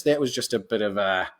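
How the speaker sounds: Cockney accent. Shown as a demonstration. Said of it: "Cockney kind of accent".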